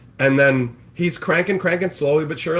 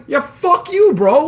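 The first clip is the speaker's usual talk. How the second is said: much higher, loud yelled curse; angry shout; 12 semitones higher, 7 dB louder, slower than usual. Real, not acted. Streamer venting at freeloaders, angry shout. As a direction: snap it out furiously.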